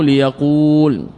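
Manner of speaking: ليقول with a long held uu; long original vowel. Shown as a demonstration. Teacher giving the word's origin, drawn-out ليقول. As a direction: draw out the last vowel of ليقول. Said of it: "فأصله".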